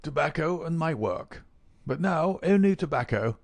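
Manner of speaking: put-on high-pitched exclamation from an old professor; elderly scholar's plaintive outcry; old man exclaiming. A narrator's reading. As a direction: lament it in a high, theatrical old voice. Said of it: "the old man exclaimed".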